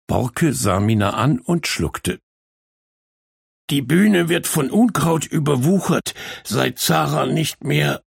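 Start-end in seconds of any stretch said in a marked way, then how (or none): 3.7-8.0 breaking off. Acted. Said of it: "weiter kam er nicht".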